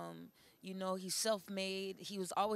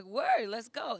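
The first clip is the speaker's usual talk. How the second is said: excited; 3 semitones higher, 10 dB louder, much slower than usual. Retold or imitated. Retold eager yes to a rapper.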